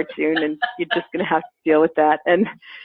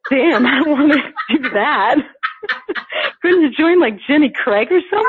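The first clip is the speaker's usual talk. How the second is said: mocking outsiders; 8 semitones higher, 3 dB louder than usual. Mocking people's voice.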